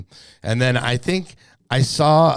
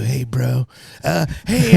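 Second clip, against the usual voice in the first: higher, hyped prankster-host voice with a laugh in it; Steve-O impression; 5 semitones higher than usual. Host introducing an Australian guest, as a pitched-up hyped prankster bro. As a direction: ham up a party bro introducing a gnarly guest. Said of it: "I need to work on my, my Steve-O".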